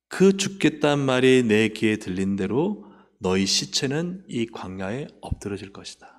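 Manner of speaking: ordinary delivery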